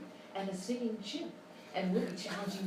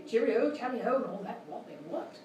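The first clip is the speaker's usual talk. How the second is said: silly string of English clichés in a put-on English accent; mock English accent; 2 semitones higher than usual. Host mocking English talk shows in an English accent. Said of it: "our idea of a typical English talk show".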